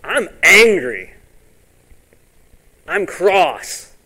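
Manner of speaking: mock grouchy Naaman; hammed-up anger. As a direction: play the sulky angry man. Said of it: "was wroth".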